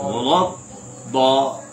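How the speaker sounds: ولد دا slow with the plain d sound; wrong demo. Shown as a demonstration. Teacher shows the mistaken onset, slow. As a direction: drag out دا wrongly. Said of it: "دعا ایسے نہیں کرنا".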